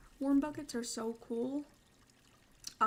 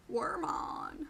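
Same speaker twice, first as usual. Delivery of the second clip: whisper; 4 semitones higher than usual. Shown as a demonstration. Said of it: "repeated tagline, whispered take".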